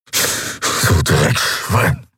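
very slow, pained whisper; whispered curse. A narrator's reading. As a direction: whisper the insult with great effort. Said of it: "flüsterte er".

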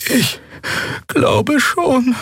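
shaky reassurance; unsure reply. A narrator's reading. Shaken crewman answers.

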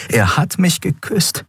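high, delighted amazement; elated realization. A narrator's reading. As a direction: marvel at it with rising joy. Elated inner thought, dreams come true.

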